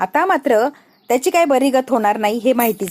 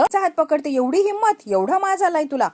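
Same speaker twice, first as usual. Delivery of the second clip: shrill scolding; 5 semitones higher than usual. Acted. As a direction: shame the new bride. Shobhi scolds Shravani. (चढ्या आवाजात टोमणे)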